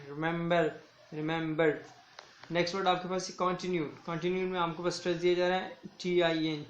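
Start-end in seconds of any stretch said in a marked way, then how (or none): 0.1-1.7 रिमेंबर with weight on the middle syllable; teacher demonstrating middle stress in रिमेंबर. Shown as a demonstration. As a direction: lean on the मेंब in रिमेंबर. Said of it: "middle में stress है ma'am".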